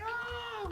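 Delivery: imitated wail. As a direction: mimic a kid's thin cry of pain. Imitating the hurt kid's cry.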